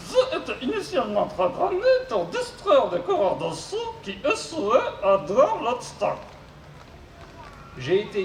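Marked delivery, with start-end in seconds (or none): 0.1-6.1 mangle the consonants like a glitchy robot. Acted. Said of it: "souffre d'une pathologie vocale".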